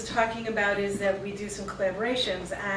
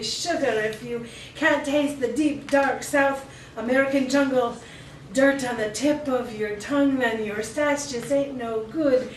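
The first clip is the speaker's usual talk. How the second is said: grandma voice; slower than usual. Acted. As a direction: lean in like a grandma passing wisdom. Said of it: "She would always say".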